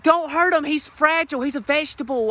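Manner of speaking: high pleading falsetto wife. Retold or imitated. Comic voicing the wife begging him not to hurt the pillow boyfriend. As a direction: plead for Tyler in a squeaky high voice.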